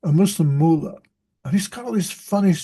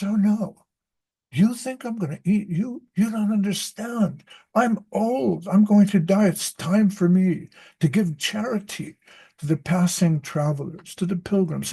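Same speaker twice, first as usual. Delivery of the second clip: put-on sly old lion; 4 semitones higher than usual. Old lion coaxing the traveler.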